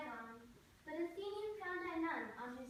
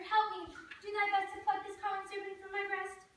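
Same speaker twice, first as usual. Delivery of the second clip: louder, higher frightened plea; panicked cry for help; 6 semitones higher, 5 dB louder than usual. Acted. Hermia waking from a serpent nightmare, crying for help. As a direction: cry out in terror from a bad dream.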